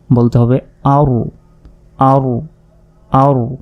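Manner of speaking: আরু with a full rounded u ending, not আর. Shown as a demonstration. Teacher corrects students' reading, clear আরু. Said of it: "Hamza র জবর আর না বলে".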